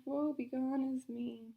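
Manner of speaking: slow, mock-tragic sniffle; slow sniffly lament; sniffling. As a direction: sniff through the words, woe-is-me. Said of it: "I sniffed".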